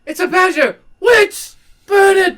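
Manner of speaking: high shouting mob cry; angry mob leader. Acted. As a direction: rouse the mob to burn the witch. Mock witch-hunt shouting.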